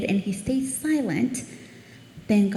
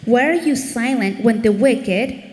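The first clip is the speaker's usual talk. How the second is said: emphatic protest; 5 dB louder than usual. Retold or imitated. Acting Habakkuk's protest to God.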